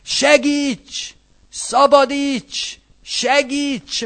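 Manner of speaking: high, urgent cries for help; pleading cry. Shown as a demonstration. Preacher showing a plea psalm, crying for help. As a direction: beg God to save you, high and urgent. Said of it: "ez könyörgő panas Zsoltár".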